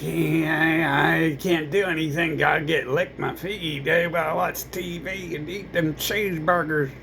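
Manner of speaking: lightly put-on dopey voice; mock them as lazy and dumb; mocking whiny voice. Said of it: "And they're like".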